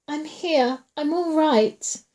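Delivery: high, frightened call; trembling terror and relief. A narrator's reading. Woman calling from the dark, terrified and relieved. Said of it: "her voice trembling in terror and in relief".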